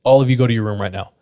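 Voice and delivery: quick order, hiding any fear; mildly firm, brisk retold command. D sending cousins to their rooms, firm without showing fear. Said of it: "tries to show no fear".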